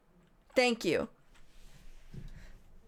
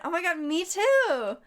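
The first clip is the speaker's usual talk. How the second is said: gushing squeal; 7 semitones higher, slower than usual. Retold or imitated. Gushing at crush.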